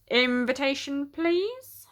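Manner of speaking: lightly voiced stiff doorman; a hint of a formal doorman. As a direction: ask for it like a bored doorman. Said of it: "said the doorman".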